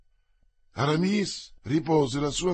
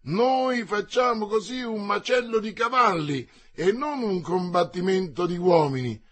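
ringing scorn, pitched up at the start; mocking; 5 semitones higher than usual. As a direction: sneer at the horse slaughter. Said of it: "voce vibrante e beffarda".

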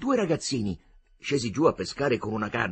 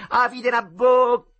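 loud, high yell broken off; shouted insult, cut off; 11 semitones higher, 9 dB louder, much slower than usual. Acted. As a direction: bellow and break off. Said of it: "gridò Agnolo". (grido interrotto)

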